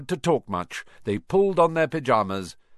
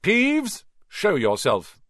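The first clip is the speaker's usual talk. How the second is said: Peeves called out high and louder; raised voice; 8 semitones higher, 3 dB louder, slower than usual. A narrator's reading. Percy summoning the poltergeist, raised commanding call. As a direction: call the name sharply up into the air. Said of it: "He raised his voice".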